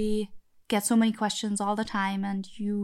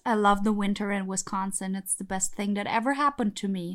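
sarcastic. Real, not acted. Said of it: "I can hear your sarcasm a little bit".

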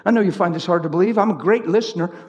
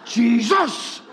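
Jesus drawn out with a rising tune; mock emphasis; 2 semitones higher than usual. Shown as a demonstration. Mocking people who stress the name of Jesus. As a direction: lean hard on the name Jesus. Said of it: "emphasizing name of Jesus".

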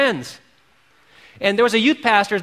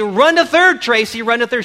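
cheering call; 3 semitones higher, 4 dB louder than usual. Retold or imitated. Crowd calling Tracy on to third, cheering call. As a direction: shout her on to third. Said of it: "they say".

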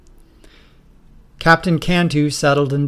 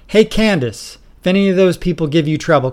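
ordering; 4 semitones higher, 4 dB louder than usual. Acted. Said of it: "he ordered".

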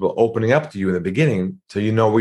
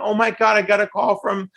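mock excitement; 12 semitones higher than usual. Salesperson telling spouse, mocked.

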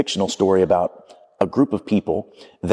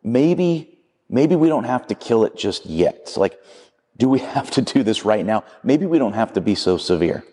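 higher-pitched hesitant hedging, easing down; backpedaling; 3 semitones higher than usual. Acted. Man to angel about killing the lizard, backpedaling. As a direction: act out someone nervously backing out of a deal. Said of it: "he starts to backpedal".

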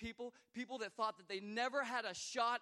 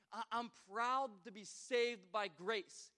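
slow, loud, deliberate proclaiming; slow proud declaration; 5 dB louder, slower than usual. Acted. Pastor declaring to the congregation, slow and proud. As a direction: declare it with pride.

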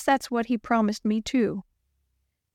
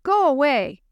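shouting; 5 semitones higher, 5 dB louder than usual. Acted. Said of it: "he shouted at the storm".

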